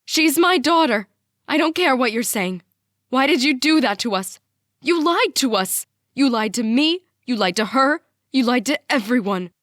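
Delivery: loud, outraged shriek. A narrator's reading. Mom accuses dad of lying, shrieking. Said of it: "Mom shrieks".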